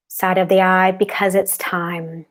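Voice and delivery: talking around a cough drop; cough drop in mouth. Real, not acted. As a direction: speak with a lozenge in your mouth. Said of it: "I have a cough drop in my mouth".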